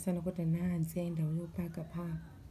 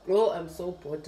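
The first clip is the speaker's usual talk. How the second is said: loud bored groan; 7 dB louder than usual. Real, not acted. Vlogger moaning to viewers about the leaky cup, loud bored groan. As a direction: let the boredom burst out loudly.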